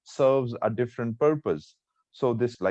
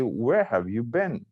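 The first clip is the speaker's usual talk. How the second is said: slow, suspicious questioning. Shown as a demonstration. Teacher showing students a tone change, suspicious. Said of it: "I'm suspicious".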